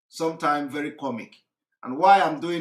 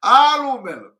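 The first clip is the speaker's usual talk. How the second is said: imitated shout; 7 semitones higher, 10 dB louder than usual. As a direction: wail it out like he's being beaten. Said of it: "He was shouting".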